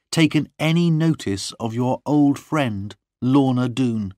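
high, insistent interrogation; demanding questioning. A narrator's reading. Lorna questioning her lover John, high and demanding. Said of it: "began to question me".

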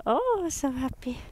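high, bright sing-song for the dog. Real, not acted. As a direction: coo at the happy dog. Baby talk to dog.

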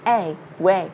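"A" then "way", low and separate; "way" with W gliding into A; rounded W demo. Shown as a demonstration. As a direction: model "way" with lips pursed. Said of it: "chu cái miệng lên chút xíu".

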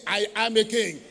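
a touch fuller and firmer, a kingly declaration. Shown as a demonstration. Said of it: "No, say it like a king".

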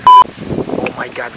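loud, drawn-out real amazement; surprised. Real, not acted. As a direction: blurt it out, stunned by the sight. Sees the heavy rain arrive.

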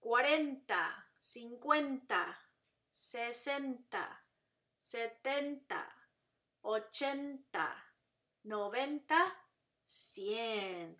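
slow, clear teacher drill; slow counting drill for repeating; repeat after me. Shown as a demonstration. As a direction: pause after each number for echoing. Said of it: "repeat after me".

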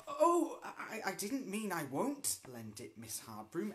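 meek. Acted. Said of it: "Ethel said meekly".

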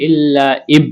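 ইব with a bouncing echo on the ব; qalqala echo. Shown as a demonstration. Teacher showing qalqala bounce on the letter ব to students. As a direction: release the ব of ইব with a little bounce. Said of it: "কলকলা করে পড়তে হবে".

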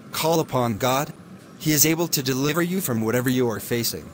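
steady, earnest sermon delivery; radio preaching. Acted. Preacher on the radio urging listeners, earnest sermon voice. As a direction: preach good news to the listeners.

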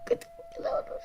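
breathy whisper, no voice. Real, not acted. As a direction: whisper it close to the mic. Child whispers about tickling.

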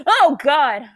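real startled alarm; scared. Real, not acted. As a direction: jolt with fright. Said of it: "I'm scared".

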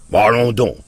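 high, loud scoffing retort; contemptuous. Acted. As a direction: brush him off with scorn. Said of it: "répliqua l'oncle Jules avec mépris".

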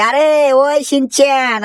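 long slow shout for Shinchan; calling out. Acted. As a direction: call him from across the yard, slowly. Uncle calling Shinchan from afar.

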